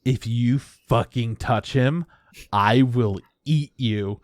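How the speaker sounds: slow, menacing spirit voice; spirit threat. Retold or imitated. The scary spirit warning the girl off, slow menace. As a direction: drag it out like a looming monster. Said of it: "it's just like".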